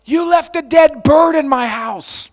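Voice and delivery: slow, loud accusing repetition. Retold or imitated. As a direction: hammer each word at him like a stalker's accusation. Woman confronting him in park.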